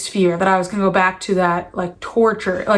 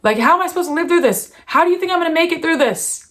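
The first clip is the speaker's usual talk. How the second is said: higher-pitched, exasperated pleading; retold anger at God; 5 semitones higher, faster than usual. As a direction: demand answers in a raised, distressed pitch. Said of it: "I was so mad at God".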